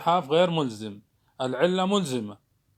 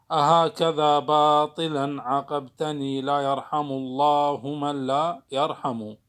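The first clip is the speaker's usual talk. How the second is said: poem recitation; slower than usual. Shown as a demonstration. Teacher reads the example verse aloud to the class. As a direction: recite the poem line with weight. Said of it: "لاحظ هذا بيت من مجزوء البسيط".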